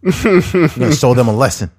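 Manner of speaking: a hint of a New York Italian accent; slightly put-on mobster threat; light New York Italian accent; lightly mock mobster. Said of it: "Italian mobster".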